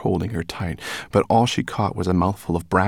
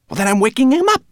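much higher, loud and spiteful; spat; 10 dB louder, faster than usual. A narrator's reading. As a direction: spit the words out. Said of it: "spat the rat".

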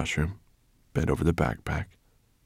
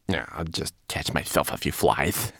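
embarrassed homunculus. Acted.

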